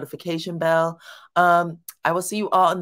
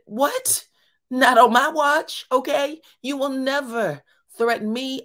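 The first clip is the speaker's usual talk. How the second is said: higher and louder, a retold angry warning; mock furious father squaring up; threatening dad; 6 semitones higher, 3 dB louder than usual. Father warning his son with balled fists, loud mock-angry threat.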